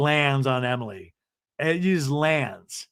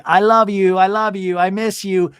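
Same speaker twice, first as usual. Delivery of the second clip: higher, sappy lovesick voice; mock lovey-dovey; 5 semitones higher, 6 dB louder than usual. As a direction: coo it like a smitten teenager. Mocking lovers on the phone.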